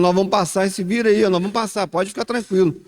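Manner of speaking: a hint of Jesus assuring the disciples; firm Jesus reassurance. Jesus acorda e fala aos discípulos. (Jesus falando firme aos discípulos)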